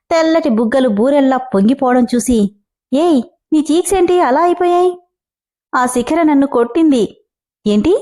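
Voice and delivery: lively storyteller reading a serial aloud; story narration. A narrator's reading. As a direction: tell the tale with a voice for each character. (కథ చదువుతున్న స్వరం)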